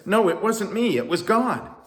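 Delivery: high, loud protest; insistent denial. A narrator's reading. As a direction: refuse the credit emphatically. Moses protests the crowd's praise.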